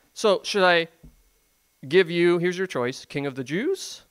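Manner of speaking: mock offer with a rising question at the end; lightly mocking, sham-generous offer. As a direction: dangle the choice as a taunt. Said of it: "he said that in a mocking tone".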